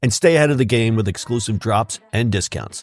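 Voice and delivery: upbeat sponsor ad read over music; host reading the sponsor message, ad-read voice. Acted. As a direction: sell it like a radio spot.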